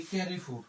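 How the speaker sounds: ক্যারিফুর with an English "kæ-ri" opening; anglicised mispronunciation. Shown as a demonstration. Teacher mimicking learners' careless reading, anglicised ক্যারিফুর. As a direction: say ক্যারিফুর quickly, as if it were English. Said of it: "ঠাস করে আমরা বলে ফেলি".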